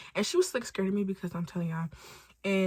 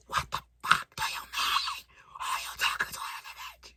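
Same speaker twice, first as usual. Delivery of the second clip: screaming and yelling. Retold or imitated. Irate girlfriend yelling at him down the phone, screaming. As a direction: rasp out a furious re-enacted yell. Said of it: "I'm screaming and yelling for no reason".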